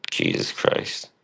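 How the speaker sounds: breathy whispered "Jesus Christ"; a hushed, weary oath to himself; whispered exasperation. Real, not acted. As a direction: whisper it under your breath, fed up. Exasperated aside about old streams.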